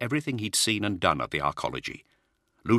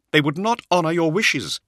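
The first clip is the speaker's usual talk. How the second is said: pleading; 12 semitones higher, 6 dB louder than usual. Acted. Cypher's earnest plea.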